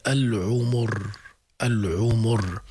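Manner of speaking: slow "العمر" with u on each consonant; three dammas in a row. Shown as a demonstration. Teacher shows students a heavy word, three u sounds in "العمر". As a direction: say "العمر" as al-ʿumur, drawn out. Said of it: "ثلاث ضمات متوالية".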